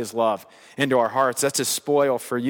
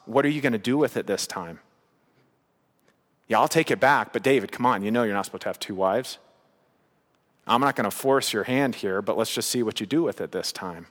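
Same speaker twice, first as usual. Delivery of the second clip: lower, softer voice of God, probing; God gently questioning; 5 semitones lower, 3 dB quieter than usual. Acted. God to David, soft and low questioning. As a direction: ask it like a patient father who already knows.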